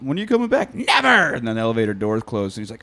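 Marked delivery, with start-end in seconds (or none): 0.0-0.7 tag. Retold or imitated. Retold boyfriend as she leaves. 0.7-1.3 high, sharp retort; angry mock yell. Girlfriend leaving in the elevator, angry.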